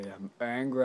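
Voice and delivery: loud pretend-angry burst; mock angry toy voice; playful mock anger. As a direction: flip into a hammed-up angry voice.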